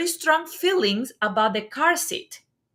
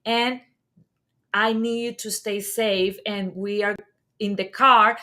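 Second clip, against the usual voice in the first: gentle reassurance. Retold or imitated. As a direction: soothe the crying baby gently. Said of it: "hold the space and say".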